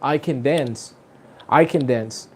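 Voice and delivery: "dance" carries the weight; stress on dance. Shown as a demonstration. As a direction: lean on "dance". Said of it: "la otra forma". (énfasis en "dance")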